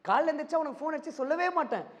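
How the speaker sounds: quick, high-pitched mimicry of a film hero's dialogue; lightly acted film hero line; film hero impression. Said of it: "Jayam Ravi".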